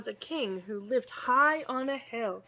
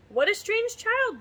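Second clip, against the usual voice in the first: high, slightly louder snooty villager; villagers' remark; 11 semitones higher, 4 dB louder than usual. Acted. Villagers passing by, sneering at Boy as a strange child. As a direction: sniff at the odd child. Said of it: "they would say".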